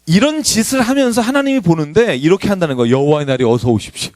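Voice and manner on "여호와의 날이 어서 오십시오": mock the zealots begging for the day; mock eager worshipper. Preacher mocking worshippers who crave the Lord's day, hammed-up plea. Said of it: "이러는 거예요".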